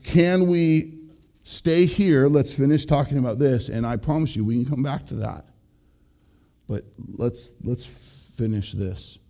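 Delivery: spouse asking kindly to finish one topic first, gently; lovingly. Shown as a demonstration. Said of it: "Just lovingly say".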